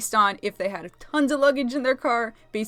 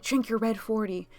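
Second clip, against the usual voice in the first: mock teasing. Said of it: "I made fun of June. I was like".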